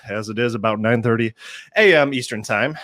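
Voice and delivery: ordinary talk, nothing marked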